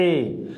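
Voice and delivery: ए said short and clear; model vowel. Shown as a demonstration. Teacher to students, demonstrating ए. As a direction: sound out ए. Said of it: "क्या होता है?".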